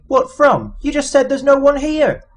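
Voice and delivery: indignant protest. Acted. Arthur protesting Zaphod's order to stand guard, incredulous. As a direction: object in disbelief.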